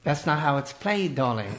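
mock-fancy English accent. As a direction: chide with a put-on English accent. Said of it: "answer in an English accent".

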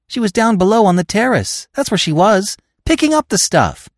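high, loud, frantic gabble; panicked and breathless, piling on; overwrought, frantic. A narrator's reading. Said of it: "cried his overwrought partner".

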